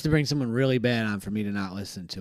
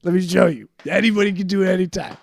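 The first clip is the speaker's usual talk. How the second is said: mock drunk taunt; 7 semitones higher, 9 dB louder than usual. A cocky drunk taunts the officer he escaped, loud and high.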